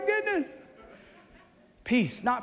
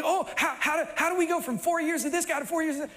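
mock panicked voter; 5 semitones higher, faster than usual. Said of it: "You're like".

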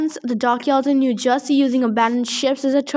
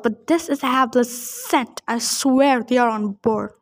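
growling dog voice. Acted. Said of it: "a second voice snarled".

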